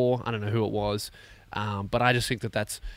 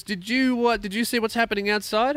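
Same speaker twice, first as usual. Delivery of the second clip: much higher mock coworker voice; coworker asking; 11 semitones higher than usual. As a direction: pitch it way up, curious. Coworker voiced in retold story.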